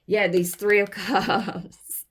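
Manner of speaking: slow, laughing through the card name. Real, not acted. Reading a tarot card to viewers, laughing slowly. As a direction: let a laugh break into the words.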